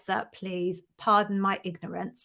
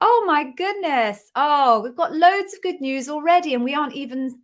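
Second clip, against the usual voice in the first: higher, louder exclamation; excited delight; 5 semitones higher, 4 dB louder than usual. Real, not acted. Host overjoyed at loads of good news, excited. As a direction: gush over the good news.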